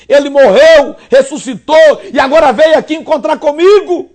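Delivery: Peter's lament, building to a cry; lightly voiced Peter in anguish; remorseful Peter. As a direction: let the regret swell and break out.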